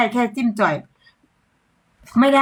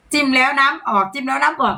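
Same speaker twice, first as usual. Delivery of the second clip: laughing repeat; 4 semitones higher than usual. Shown as a demonstration. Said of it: "พี่เจบอกให้พูดอย่างนั้น".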